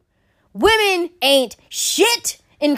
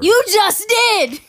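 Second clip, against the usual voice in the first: indignant; 8 semitones higher, 4 dB louder, much slower than usual. Real, not acted. Indignant retort.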